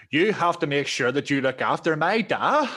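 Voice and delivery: imitating an IRA boss with a questioning lift on "da"; question on the end. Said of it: "with a question on the end".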